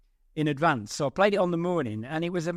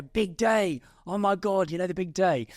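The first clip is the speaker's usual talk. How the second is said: mildly hyped-up imitation of excited colleagues; mock a nervous group building up the big day; a touch of retold pre-event excitement; talking it up; 3 semitones higher than usual. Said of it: "they were all talking it up".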